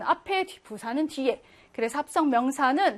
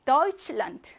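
Deutschland stressed on Deutsch, eu said as oi, land light; front stress. Shown as a demonstration. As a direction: model Deutschland with the weight on Deutsch. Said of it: "강세는 앞에 오죠".

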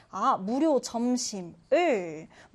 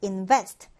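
invest with the second syllable stressed, in-VEST; 4 semitones lower than usual. Shown as a demonstration. Teacher modelling invest with its stress on VEST. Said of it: "강세를 두고요".

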